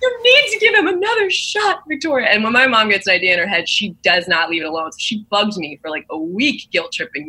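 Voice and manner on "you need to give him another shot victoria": high, slow, pleading mom voice; mock the mother begging for the poor boy; a hammed-up high mom pleading slowly.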